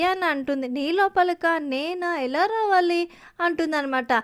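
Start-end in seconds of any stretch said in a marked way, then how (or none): 0.7-3.0 mildly incredulous, pitched a little higher; a touch of puzzled surprise; surprised questioning. Acted. Girl asked to go inside coconut.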